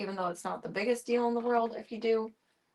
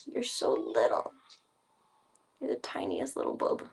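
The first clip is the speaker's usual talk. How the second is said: whisper; 3 semitones higher, 5 dB quieter than usual. Real, not acted. Whispering to purring cat.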